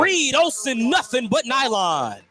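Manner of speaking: sudden jump up for a big shot; excited call. Real, not acted. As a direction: call the name with a burst of excitement. Play-by-play call of a made three.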